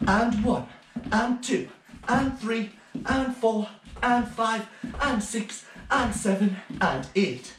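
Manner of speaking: sing-song dance count to eight; counting the beat. Shown as a demonstration. Teacher counting children through spring points. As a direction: call the counts out clearly for little dancers. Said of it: "We go".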